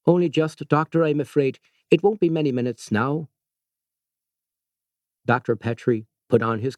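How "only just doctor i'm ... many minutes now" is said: put-on sombre news in a careful Irish accent. A narrator's reading. Ward sister warning the doctor the patient is dying, careful Irish accent. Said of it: "in her careful Irish accent".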